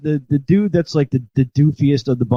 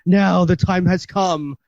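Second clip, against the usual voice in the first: slow, higher-pitched ominous imitation; spider woman; 6 semitones higher, slower than usual. Spider woman starting her transformation, slow high portentous imitation. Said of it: "she's like".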